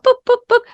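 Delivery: playful bark imitation; imitated dog barks.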